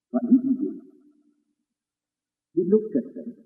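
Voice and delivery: hushed unvoiced question; soft whisper to draw listeners in; whispered aside. Real, not acted. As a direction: whisper it to the congregation. Preacher drops to hush.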